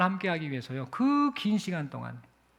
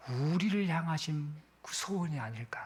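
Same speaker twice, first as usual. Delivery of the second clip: unvoiced, intimate whisper; preacher's hushed whisper; hushed question; 2 semitones lower, 5 dB quieter than usual. Real, not acted. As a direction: draw listeners in with a whisper. Preacher's tender climax.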